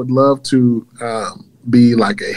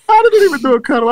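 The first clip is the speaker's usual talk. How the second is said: laughing through words. Real, not acted. Laughing at his own joke.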